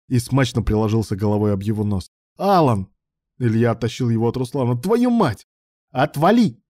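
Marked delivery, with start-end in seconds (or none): 2.4-2.9 higher and louder cry of the name; shouted name in a fight; shouting name. A narrator's reading. Shouting to stop attacker. 4.8-6.6 much higher, louder furious curse; enraged curse in a brawl. A narrator's reading. Cursing in a fight.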